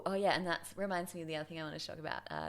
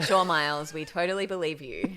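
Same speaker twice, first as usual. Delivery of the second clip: sarcastic; 2 semitones lower, 10 dB louder than usual. Retold or imitated. Mocking O'Brien's denial.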